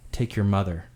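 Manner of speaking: low, quiet monster snarl; undead growl. Acted. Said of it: "the same snarling growl".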